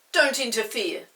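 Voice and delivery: loud cross snap; crossly. Acted. Peter snaps at Chinky crossly. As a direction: tell the pixie off sharply. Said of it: "said Peter crossly".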